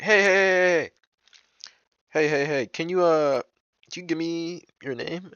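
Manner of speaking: high-pitched mock girl's voice; imitated girl calling out. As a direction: mimic her eagerly flagging the guy down.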